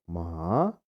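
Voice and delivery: "ma" falling then rising; dipping tone. Shown as a demonstration. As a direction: third tone on "ma", low dip. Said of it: "nada bergelombang".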